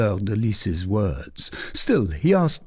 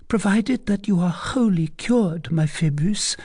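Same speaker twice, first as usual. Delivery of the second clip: put-on a higher, teasing young lady's voice; coy young lady; 9 semitones higher than usual. A narrator's reading. Young lady teasing the captain, coy and higher. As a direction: play the coy cousin pressing her question. Fleur de Lis voiced high.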